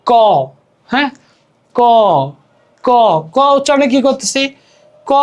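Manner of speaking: ক with its open aw vowel sounded; ক voiced with its built-in vowel; inherent vowel demo. Shown as a demonstration. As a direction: say ক as a clear "kaw". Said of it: "স্বরধ্বনি উচ্চারণ থাকে".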